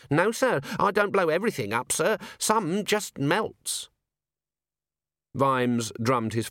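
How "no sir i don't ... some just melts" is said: put-on higher, earnest young dwarf; eager young recruit answering his boss, pitched up; a young dwarf explains his blunder to the commander, eager and high; young dwarf alchemist. Dwarf excuses his explosions.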